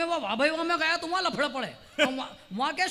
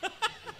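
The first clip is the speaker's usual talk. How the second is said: hearty laugh; 7 semitones higher, 8 dB quieter than usual. Retold or imitated. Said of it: "ठहाका लगा के हंसा".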